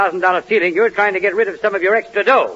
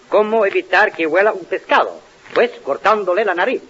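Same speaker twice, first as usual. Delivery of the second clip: Spanish translation. Shown as a demonstration. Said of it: "in Spanish it would be".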